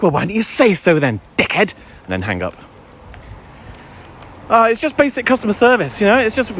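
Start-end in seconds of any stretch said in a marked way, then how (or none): 0.0-1.7 irritated retort. Acted. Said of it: "I wanna go".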